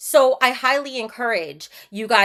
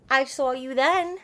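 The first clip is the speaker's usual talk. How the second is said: drawn-out knowing tease; teasing. Shown as a demonstration. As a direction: tease him with it.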